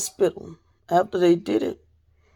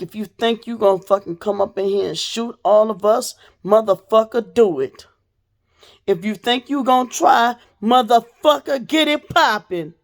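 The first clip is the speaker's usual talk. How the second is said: defiant dare; 3 semitones higher than usual. Retold or imitated. Daring the gunman.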